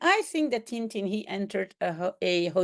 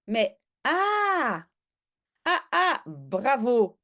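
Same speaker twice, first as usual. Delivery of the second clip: gleeful; 2 semitones higher, slower than usual. Acted. Caller gloats gleefully on the phone. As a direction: gloat with glee. Reacting with glee.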